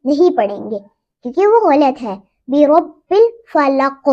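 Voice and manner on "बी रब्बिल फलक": फलक ending on a bouncing qaf echo. Shown as a demonstration. Teacher demonstrates the echo on the final letter. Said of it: "कौफ पे कलकला होगा".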